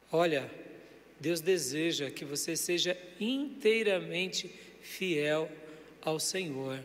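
softly modelled line to repeat; gentle modelling. Shown as a demonstration. Preacher giving the congregation words for their neighbour, gentle modelling. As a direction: say it softly, measured, for others to pass on.

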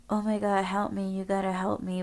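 mild mock cry for help; joking, self-mocking plea. Running up to people for help, sounding mockingly distressed. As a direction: plead as if only half-seriously, slightly whiny. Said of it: "like I'm joking or I'm mocking myself".

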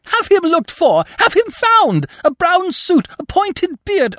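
top-of-the-voice shriek, very high. A narrator's reading. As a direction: shriek out orders hysterically. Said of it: "continued to shriek at the top of her voice".

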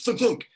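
two punchy mimicked thuds; imitated thunk. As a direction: imitate a loud double thunk. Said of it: "we hear a louder noise".

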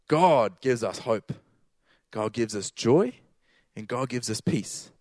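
slow, weighty declarations; slow preaching. Acted. Preacher tells the congregation what God gives, slow and weighty. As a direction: drive home each gift slowly.

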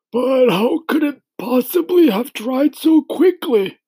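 high-pitched, loud puzzled grasshopper voice; high character voice, baffled; old grasshopper, astonished. Acted.

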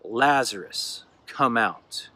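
commanding call into the tomb; calling out loudly. Acted. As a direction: call the dead man out of the tomb. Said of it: "Jesus called out in a loud voice".

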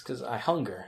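a hint of a booming cosmic villain; Galactus voice. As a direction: intone it like a cosmic devourer. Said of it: "Galactus, that's a comic book reference".

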